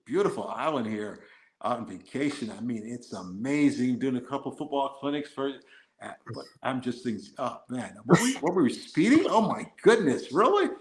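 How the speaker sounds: put-on polite American tourist accent. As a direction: lay on a chatty, innocent American accent for the officer. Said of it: "I pull on my American accent".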